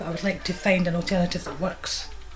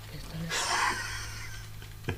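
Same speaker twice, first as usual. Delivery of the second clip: put-on tearful child whimper; 8 dB quieter, much slower than usual. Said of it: "he's just been smacked".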